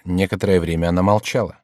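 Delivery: usual speaking voice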